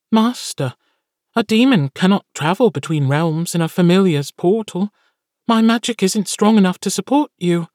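high, pinched little creature voice, apologetic; a tiny demon servant letting his master down gently; small impish familiar. Acted. Familiar tells his master the portal cannot carry him, high impish voice.

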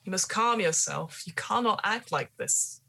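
lightly voiced stern old gardener; calm the hysterical lady firmly. GM voicing gardener in scene.

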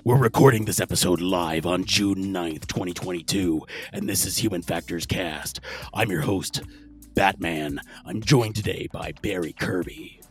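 low gravelly Batman growl; mock superhero rumble. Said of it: "the whole show in my Batman voice".

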